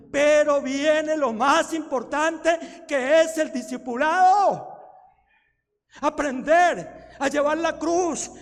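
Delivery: loud, fervent pulpit delivery; slow, booming sermon build; preaching at full force. Acted. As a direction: drive each line home to the congregation.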